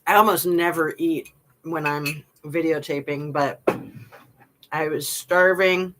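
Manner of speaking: talking through a mouthful of soup; words around a bite of food; mouth full. Real, not acted. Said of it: "I'm gonna take a bite of soup".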